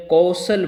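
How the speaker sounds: "कौशल" very slow, long kau; drawn-out correct vowel. Shown as a demonstration. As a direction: stretch the au in "कौशल". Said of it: "औ हो जाता है". ("कौशल" धीरे, 'औ' खींचकर)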